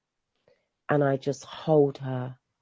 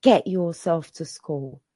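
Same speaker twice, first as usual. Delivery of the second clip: mild mock shout; 5 dB louder, slower than usual. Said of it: "shouting at her".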